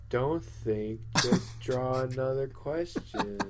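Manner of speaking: lightly hypnotised, drawn-out drone; mind-controlled trance. Pretend. Devotee steers co-host from thinking, mind-controlled trance. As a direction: say it like a brainwashed follower. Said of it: "complete and total mind control".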